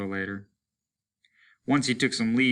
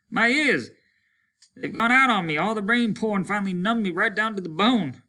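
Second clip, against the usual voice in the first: deafened loud talk; 11 semitones higher, 5 dB louder than usual. Acted. Deafened man talking too loud.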